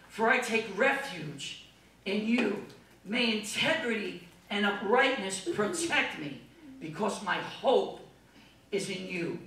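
slow, earnest psalm reading; scripture reading. Acted. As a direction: pray David's words slowly. Reads Psalm of David aloud.

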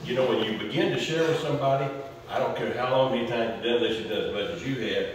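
ordinary talk

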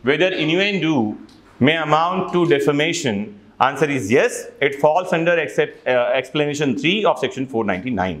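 slow, deliberate reading of a legal question; slow reading of law. Acted. Teacher to students, reading a legal question slowly. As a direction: read each word of the question out carefully.

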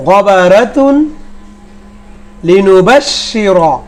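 careful word-by-word Qur'anic recitation; Arabic pronunciation drill. Shown as a demonstration. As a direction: recite each Arabic word distinctly, pausing after it. Recites Arabic example words. (আরবি শব্দের ধীরস্থির মশক)

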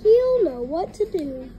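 hurried, stumbling urgency; lightly acted panted plea; Cuphead. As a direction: rush it out as if running. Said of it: "panted Cuphead".

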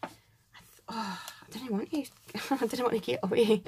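real laughter breaking in; laughing. Real, not acted. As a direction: laugh through the words. Laughs at own slip.

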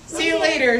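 lively picture-book read-aloud; reading to children. Acted. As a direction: read it out for a room of little kids. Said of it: "says the gator".

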